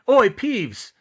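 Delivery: high, loud hail; calling out. A narrator's reading. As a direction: holler for attention. Fred calls out to poltergeist.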